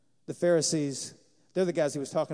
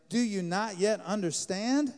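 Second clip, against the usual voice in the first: a little frustrated; 3 semitones higher, slower than usual. Retold or imitated. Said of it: "Can you tell he's a little frustrated?".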